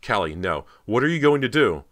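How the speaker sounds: loud plea climbing high in panic; terrified cry. A narrator's reading. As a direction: cry out in terror. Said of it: "feeling terror in her chest".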